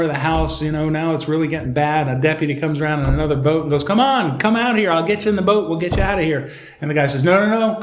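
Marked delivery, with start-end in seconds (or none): 3.8-6.5 higher-pitched urgent coaxing, easing down; mock urgent call. Deputy calling a stranded man into the boat, mock urgent. 7.2-7.8 higher-pitched comic refusal; mock refusal. Stranded man turning down the deputy's boat, mock dismissive.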